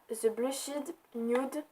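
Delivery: "The Blushed Nude" said slowly with a French accent; a clumsy French accent on the English name; accent anglais français. Real, not acted. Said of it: "Merci mon accent anglais". (nom anglais prononcé lentement avec l'accent français)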